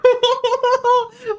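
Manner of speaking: high, wailing laugh of relief; real happy sobbing laugh; tearful laugh. Real, not acted. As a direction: let joy spill into sobbing laughter. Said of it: "I'm fucking crying".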